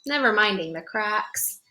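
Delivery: put-on bright storybook narration for kids; gentle picture-book reading voice; reading to children. A narrator's reading. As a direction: read it like storytime on the rug. Reads picture book aloud.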